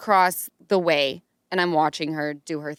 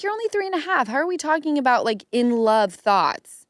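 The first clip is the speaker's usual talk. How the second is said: mock disbelief; 6 semitones higher than usual. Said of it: "I'm like".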